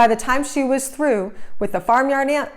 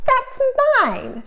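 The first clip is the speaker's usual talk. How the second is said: yell. A narrator's reading. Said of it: "she yelled".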